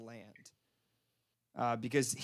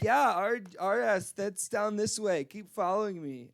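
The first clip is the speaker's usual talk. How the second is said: a hint of a drunk woman leading on; drunk lady; 5 semitones higher than usual. Drunk woman leading a stranger down the street, lightly tipsy. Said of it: "like, really drunk".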